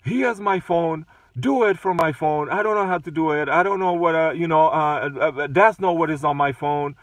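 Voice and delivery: retold huffy complaint; upset. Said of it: "she got upset to the point that she said".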